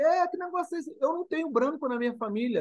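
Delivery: high mock disbelief; incredulous. Retold reaction to whites' claim, high incredulous. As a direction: squeak out the outrage.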